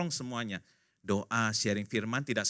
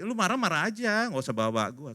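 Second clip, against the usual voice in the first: higher mock-exasperated comeback; exasperated retort; 5 semitones higher, 3 dB louder than usual. God answering a parent angry in His name, exasperated. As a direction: push the blame back at the parent.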